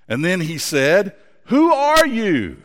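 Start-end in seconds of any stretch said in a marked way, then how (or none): 1.5-2.6 high, slow call into the mountains; boy shouting a question to the peaks. Acted. Boy calls to echo mountain.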